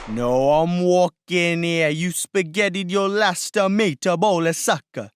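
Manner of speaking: put-on slow, drawn-out New York Italian accent; Italian mobster accent. The hitman taunts Roy in a slow New York Italian accent. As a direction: stretch "walking" in a New York Italian drawl. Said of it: "I'm allowed to do that accent".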